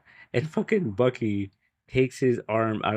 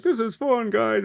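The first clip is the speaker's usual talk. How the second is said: high-pitched, poorly faked Russian accent; bad Russian accent; 13 semitones higher, slower than usual. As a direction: do a cheerful Red Guardian in a shaky attempt at a Russian accent. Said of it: "That was not the best accent".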